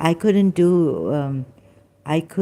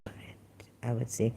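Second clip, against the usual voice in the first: whisper; 4 semitones lower, 12 dB quieter, faster than usual. Real, not acted. Whispered comfort.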